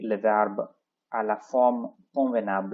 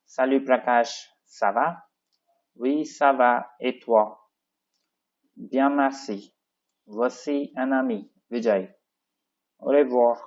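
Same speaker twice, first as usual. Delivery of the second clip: raised dialogue-reading voice, lines called out; brighter, louder dialogue read-aloud; 4 semitones higher, 3 dB louder than usual. Shown as a demonstration. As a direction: perform both parts of the dialogue for the class. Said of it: "how we'll start? ... normally salut Vijay".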